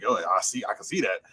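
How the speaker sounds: low, soft Cajun coach voice. Retold or imitated. Coach accepting he is let go, low imitated voice. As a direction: drop low, resigned coach impression. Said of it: "he talks like that".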